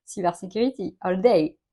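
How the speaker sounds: mock English in a French accent; lightly hammed-up French-accented English. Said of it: "avec mon super accent".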